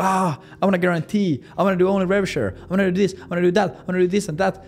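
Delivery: high, whiny list of demands; demanding prospect. Retold or imitated. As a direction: whine out every demand a notch up. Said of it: "the prospect is".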